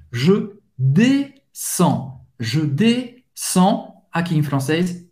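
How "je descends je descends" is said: Je descends very slow, with no D and no S and a nasal on; silent D and S. Shown as a demonstration. Teacher models Je descends very slowly, D and S silent. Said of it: "não vai pronunciar nem o D, nem o S".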